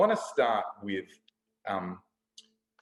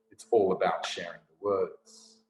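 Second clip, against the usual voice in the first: lower-pitched poetic refrain in one phrase; spoken-word refrain; 5 semitones lower than usual. Acted. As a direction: say the refrain as one continuous line. Poem's repeated closing refrain.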